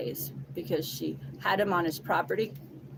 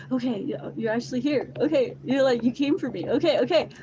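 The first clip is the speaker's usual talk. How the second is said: higher, louder, stammered relief; flustered amazement; 4 semitones higher, 4 dB louder than usual. Retold or imitated. He comes out and sees her, flustered amazement. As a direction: imitate him amazed that she turned up. Imitating him as she arrives.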